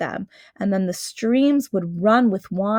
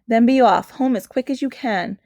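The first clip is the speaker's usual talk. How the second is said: urgent faun; 3 dB louder than usual. Acted. Faun urging Lucy to flee.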